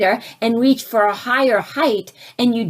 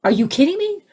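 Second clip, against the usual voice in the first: complaining; 6 semitones higher, faster than usual. Retold or imitated. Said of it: "bitching or complaining".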